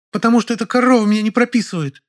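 put-on shrill-pitched angry burst from a young woman; exploding in anger. A narrator's reading. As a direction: blow up at her neighbour. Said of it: "взорвалась Зайка".

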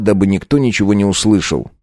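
ordinary delivery

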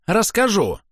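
put-on high, falling childish insistence; petulant repeat. A narrator's reading. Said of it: "похожим на капризного ребёнка".

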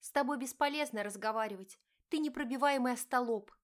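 wife confronting her cheating husband, pained; hurt wife. Acted. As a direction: plead and accuse at once. Diana insults husband.

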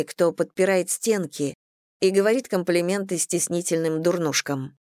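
usual speaking voice

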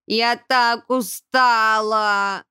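slow, breathless complaint; out of breath. A narrator's reading. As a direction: gasp it out, worn out from running. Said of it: "задыхаясь, с чувством". (устало, задыхаясь)

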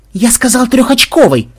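loud, high frowning command; mock-stern bark; stern insistence. A narrator's reading. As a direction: overrule the judges firmly. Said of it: "нахмурился Ксенобайт".

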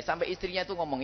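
normal talking voice

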